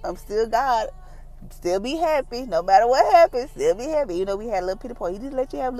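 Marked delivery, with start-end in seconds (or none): 0.1-4.1 Jesus. Acted. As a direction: gently voice a patient, reassuring figure, pitched up. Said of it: "And Jesus like".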